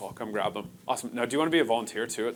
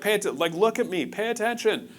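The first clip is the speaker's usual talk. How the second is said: higher-pitched imitation of an insistent parent; parent demanding attention; 8 semitones higher than usual. Parent to kids who aren't listening, insistent. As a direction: mimic a parent calling for a child's attention.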